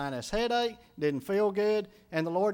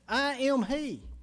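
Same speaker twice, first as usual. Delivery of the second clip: "I am he" slowly, every word weighted and higher; all caps; 6 semitones higher, slower than usual. Shown as a demonstration. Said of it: "all caps".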